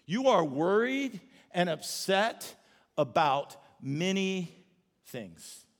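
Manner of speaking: slow, calm, gentle correction; Jesus calmly correcting Martha; gentle rebuke. Retold or imitated. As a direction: lay it out slowly and kindly. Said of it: "he basically just says this".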